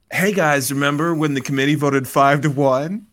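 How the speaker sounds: lightly imitated owner, projecting to the room; Mark Davis. Owner butts in to remind the others of the vote, loud impression. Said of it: "so Mark Davis is all like".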